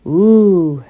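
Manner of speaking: long, loud contented ooh; sighed "ooh". A narrator's reading. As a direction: draw out a full-voiced sigh of pleasure. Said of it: "sighed Don Diego".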